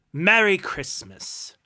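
slow, high, loud outburst on the greeting; indignant echo. Acted. Uncle disgusted by his nephew's greeting, loud indignant scorn. Second, stronger scoff at greeting.

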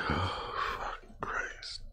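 very quiet, low, drawn-out whispered oath; weary curse. Real, not acted. Reader dismayed by the long list, weary whispered curse. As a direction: curse under your breath, slowly.

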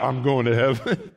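laughing through it; chuckled reply; laughing answer. Acted. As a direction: say it with a grin. Acted joyful answer.

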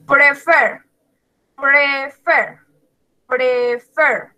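"prefer" stressed on the final "fer"; stress on last syllable. Shown as a demonstration. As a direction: say "prefer" slowly split, landing on "fer". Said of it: "la última sílaba está acentuada". ("prefer" con el acento en la última sílaba, "fer")

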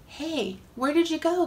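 calling out. Acted. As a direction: call out looking for someone. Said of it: "called God".

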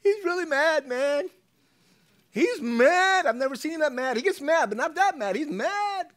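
high, loud, frantic shouting; hammed-up alarm at full pitch; panicked servant. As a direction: yell it like a scared messenger reporting rage. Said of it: "the little guy was probably too scared".

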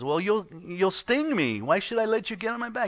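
high-pitched, wary frog in a storyteller's voice; protesting frog. Acted. Frog refuses scorpion a ride on its back, protesting. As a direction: object loudly as the doubtful frog.

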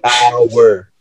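'hour' slowly stretched as ow-er; sounded-out syllables. Shown as a demonstration. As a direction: draw 'hour' out into two slow syllables. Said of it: "is, like, one syllable".

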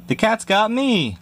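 high shriek; high frightened shriek. Acted. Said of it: "shrieked Rosie".

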